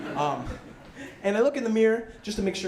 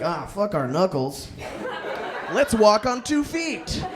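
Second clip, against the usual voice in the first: mock grand decree from evolution, slow; evolution voiced; 4 semitones higher, slower than usual. Evolution deciding to walk upright, mock proclamation. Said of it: "evolution was like".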